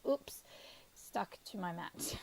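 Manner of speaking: whispered oops at a small mishap; whispering. Real, not acted. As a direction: whisper it to yourself. Mishap at the desk.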